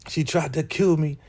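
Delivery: high, singled-out mock whine; mocking mimicry. Recapper as amused Daikon mocking Elder Mother, high mimicry. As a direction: parrot the complaint in a high voice. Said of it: "he starts to laugh because he's like".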